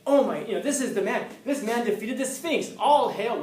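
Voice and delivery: mock-excited villagers; excited crowd. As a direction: play the crowd hailing their hero. Townsfolk hailing the hero.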